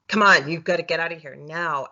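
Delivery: mildly forceful push to get someone out. Retold or imitated. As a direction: imitate someone insisting, with force. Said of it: "really forcefully like".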